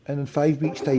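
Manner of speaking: talking without dentures; gummy speech, teeth out. Real, not acted. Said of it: "I'll go and put my teeth in".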